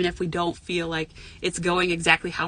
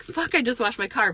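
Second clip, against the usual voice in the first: toned-down mock complaint, raised pitch; milder realistic reaction; 5 semitones higher than usual. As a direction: concede the annoyance without the outburst. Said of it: "But the reality is".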